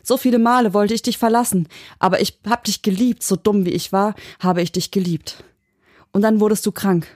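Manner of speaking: high-pitched, worked-up confession; angry outburst. Acted. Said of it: "Sie war wütend".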